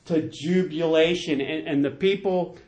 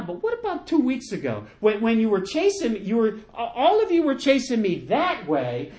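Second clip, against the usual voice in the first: higher-pitched, exaggerated puzzled complaint; mock incredulity; 4 semitones higher than usual. King wonders at former pursuers now welcoming him, mock incredulous. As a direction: play up the disbelief at a turncoat. Voicing David's imagined thoughts on Shimei.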